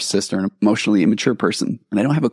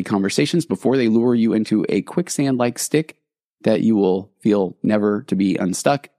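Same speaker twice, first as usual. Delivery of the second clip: carnival barker. Pretend. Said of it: "Back to your regularly scheduled carnival barker".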